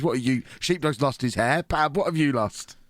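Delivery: ordinary talk, nothing marked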